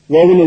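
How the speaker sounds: ஓவன்னு with a long "oh" first; mispronounced oven. Shown as a demonstration. Teacher repeats what many people say, ஓவன்னு with long O. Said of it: "அது தப்பு".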